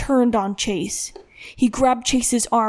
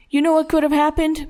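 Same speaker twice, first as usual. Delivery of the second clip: higher-pitched, heated challenge; angry demand; 5 semitones higher, 3 dB louder than usual. A narrator's reading. Father with belt confronts his son, angrily. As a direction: press him like a father losing patience.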